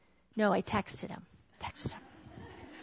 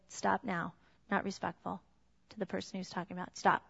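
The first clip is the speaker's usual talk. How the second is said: stern quiet warning; 4 semitones lower, 8 dB quieter than usual. Retold or imitated. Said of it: "I looked him right in the eye".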